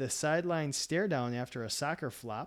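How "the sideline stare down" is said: usual speaking voice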